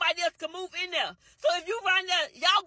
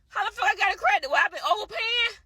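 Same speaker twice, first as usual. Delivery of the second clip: incredulous outburst; 5 semitones higher than usual. Real, not acted. Outraged retort to clerk.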